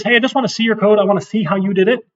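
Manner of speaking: a hint of a wheedling student asking for code; mock pushy classmate. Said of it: "So if someone says".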